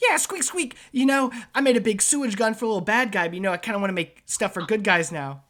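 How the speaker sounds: high, loud, fast rat voice with squeaks; squeaky rat man. Acted. GM mocking the rat doctor, high squeaky rat voice.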